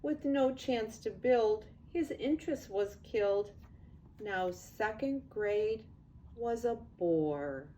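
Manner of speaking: lively storybook read-aloud; sing-song picture book narration; reading to children. A narrator's reading. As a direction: read it like bedtime rhyme to kids.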